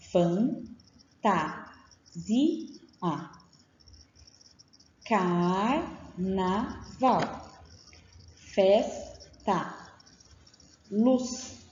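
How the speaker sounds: slow, careful dictation of single words, each one drawn out; dictation, syllable by syllable. Shown as a demonstration. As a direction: read out every word clearly, like a dictation for a child. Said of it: "Então, olha só".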